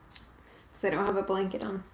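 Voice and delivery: ordinary talk, nothing marked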